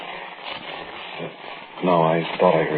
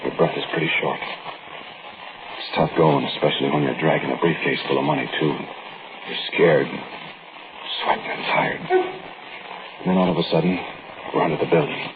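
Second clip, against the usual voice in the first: story narration. A narrator's reading.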